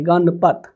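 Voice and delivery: गणपत as गण-पत, with no "a" after ण; गणपत split into two beats, "gan-pat"; no vowel after ण. Shown as a demonstration. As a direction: close गण on the nasal, then say पत. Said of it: "एन के बाद जो है अ का उच्चारण नहीं है".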